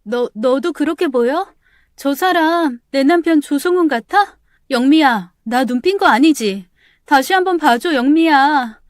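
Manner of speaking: wife begging friend to confirm, frightened; panicked pleading. Acted. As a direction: beg your friend to look again.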